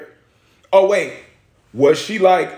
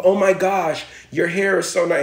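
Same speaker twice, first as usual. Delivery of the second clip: mock gushing lady; 3 semitones higher than usual. Imitating white woman gushing.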